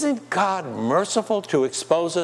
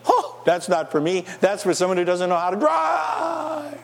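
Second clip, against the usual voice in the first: mock dismissive; 5 semitones higher than usual. Preacher mimics a smug sinner ignoring the sign, mock dismissive. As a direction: play the smug driver waving it off. Mocking the careless listener.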